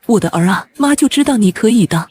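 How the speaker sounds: mildly choked-up pride; tearful joy. Acted. Mother to son on his exam score, tearful joy. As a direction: let happy tears creep into the voice. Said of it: "妈，别哭了".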